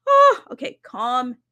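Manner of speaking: high, loud burst of excitement; gush, then try to rein it in; overexcited squeal. Real, not acted. Host squealing with excitement at the guest's ideas. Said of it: "I gotta calm down".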